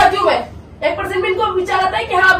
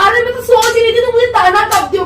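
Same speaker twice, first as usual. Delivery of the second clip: indignant protest; 5 semitones higher, 3 dB louder than usual. Real, not acted. Quarrel, indignant at being taunted.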